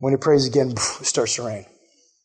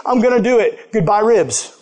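higher, bright resolve to obey; eager convert; 5 semitones higher than usual. Retold or imitated. Prisoner vowing to obey the Bible, higher and eager. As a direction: sing out the vow, giving up ribs. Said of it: "It's like".

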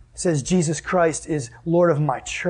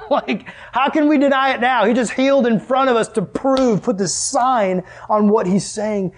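laughing disbelief; 7 semitones higher than usual. Acted. Pharisees caught out, laughing.

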